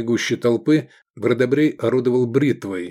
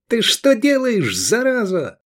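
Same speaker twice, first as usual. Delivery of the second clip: higher, slow furious shout at the man; angry outcry; 10 semitones higher, 3 dB louder than usual. Acted. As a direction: rage at the child-killer. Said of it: "воскликнул Эдик".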